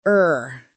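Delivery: er said low and relaxed, mouth loose. Shown as a demonstration. Teacher shows the er vowel to listeners, low and relaxed. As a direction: let er fall out low and loose. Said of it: "To make it".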